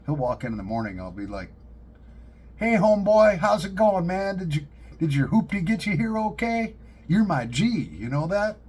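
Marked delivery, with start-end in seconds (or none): 2.6-8.6 hammed-up eighties homeboy slang, higher and louder; 80s Ebonics. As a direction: greet him like an old-school homeboy, loud and high up. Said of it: "nineteen eighties Ebonics to him".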